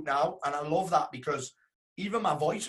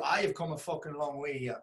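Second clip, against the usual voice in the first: quiet awe; 6 dB quieter than usual. Real, not acted. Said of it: "holy shit".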